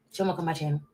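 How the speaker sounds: under your breath, like a secret; whispered jab about Maggie; whispered aside. Real, not acted.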